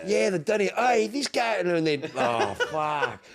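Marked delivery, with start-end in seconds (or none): 0.1-1.6 high, louder mock teasing American voice; teasing bar crowd. Bar locals mock his slang in a high, louder teasing voice. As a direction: locals poke fun at the Aussie, raised and ribbing. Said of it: "And they're like".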